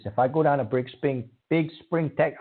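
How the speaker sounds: slurred, stumbling words; stuttering. Real, not acted. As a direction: trip over the words. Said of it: "I'm slurring and I'm stuttering".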